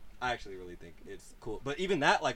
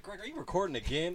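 laughing, high teasing call to Greg; laughing tease; 9 semitones higher than usual. Retold or imitated. Friend teasing Greg who films every trip, laughing. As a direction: tease him through a laugh.

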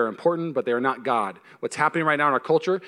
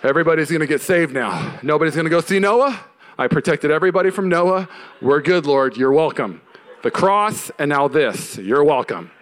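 louder, mock self-satisfied boasting to God; hammed-up proud thank-you; a preacher mocking his past smug self; smug self-congratulation; 3 dB louder than usual. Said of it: "smug after posting".

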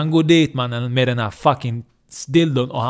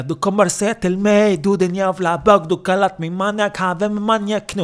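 high, raised-voice raging rant; acted angry yelling; 7 semitones higher than usual. Abbasen rants at the man he knocked out, yelling. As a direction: yell it like a madman mid-attack. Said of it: "han börjar skrika".

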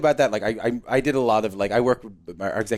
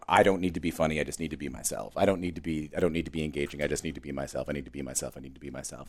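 dropping softer and softer, almost murmured; quiet self-mantra; 7 semitones lower, 8 dB quieter than usual. Retold or imitated. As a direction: talk yourself down to calm, line by line. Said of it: "he would write down".

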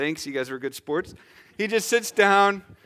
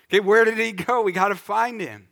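raised, higher acted-out urgency; urgent searching; 5 semitones higher, 4 dB louder than usual. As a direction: play an eager searcher in the crowd. Acts out crowd searching for Jesus.

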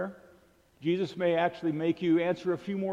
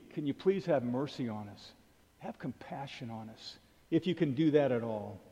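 a soft, humble plea for mercy, much quieter; pleading; 4 semitones lower, 5 dB quieter than usual. Retold or imitated. The father pleading with Jesus to heal his son, softly pleading. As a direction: beg gently, voice dropping away. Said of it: "he's pleading".

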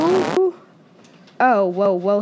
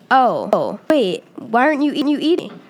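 lightly squeaky little voice; squeaky mouse voice; 2 semitones higher, 4 dB louder than usual. Acted. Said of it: "I squeak".

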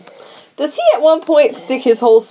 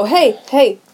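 raised pitch, repeated calls; calling for attention; 5 semitones higher than usual. Retold or imitated. Cook asking mesmerized Huey about eggs, high mock calling out. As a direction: try to rouse someone who is entranced.

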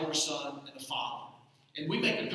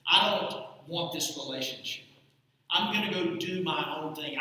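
defiant shout; 5 dB louder than usual. Retold or imitated. Voicing the son's defiant heart.

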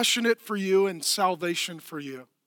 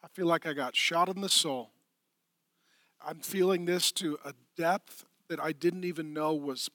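devastated grief; 4 semitones lower, 7 dB quieter than usual. Retold or imitated. Preacher voicing a grieving listener, devastated and soft. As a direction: speak from a shattered soul. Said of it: "You're like".

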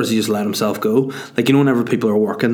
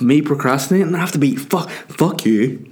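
higher pitched, hammed-up outrage; playing up his own anger in the retelling; mock fury; 5 semitones higher than usual. Retelling the fight with his wife, hammed-up higher pitched fury. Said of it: "I was pissed off".

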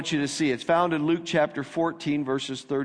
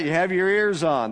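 mock CB radio call, a bit louder; 4 semitones higher, 3 dB louder than usual. Pastor imitating an old CB radio call, mock call. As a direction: toss it out like a radio handle. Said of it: "that was a C B call".

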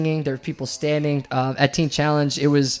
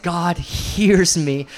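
awed whisper-like realization; 4 semitones higher, 4 dB louder, much slower than usual. Retold or imitated. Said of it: "I'm like".

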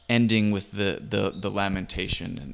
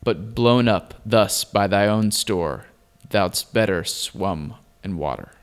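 poem recitation; 4 dB louder than usual. Acted. Reads the old poem aloud.

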